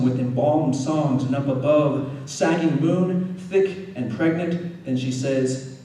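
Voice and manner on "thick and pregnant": normal talking voice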